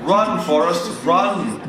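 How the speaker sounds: playful yell of Run, Forrest; mock cheer. Yelling at a soldier on screen, loud playful cheer. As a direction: call it out loud like the movie line.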